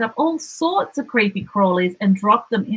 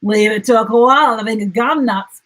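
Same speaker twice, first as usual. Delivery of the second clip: laughing; 3 semitones higher, 5 dB louder than usual. Acted. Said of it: "Dingo laughed".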